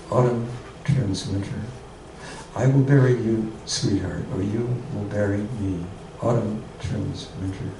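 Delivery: haiku reading. Acted. Reads haiku, each one twice.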